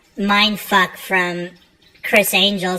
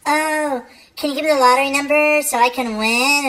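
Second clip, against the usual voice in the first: mock dim client; 6 semitones higher than usual. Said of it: "comes up to you and says".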